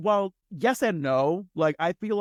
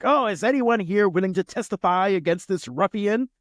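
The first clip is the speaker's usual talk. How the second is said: grumpy grandpa; 7 semitones higher, 4 dB louder than usual. Retold or imitated. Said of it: "he was just like".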